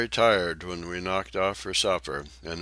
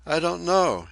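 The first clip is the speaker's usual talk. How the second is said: much higher, louder lady's voice, curious; young lady; 11 semitones higher, 7 dB louder than usual. A narrator's reading. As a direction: ask politely in a high ladylike voice. Maud voiced by narrator.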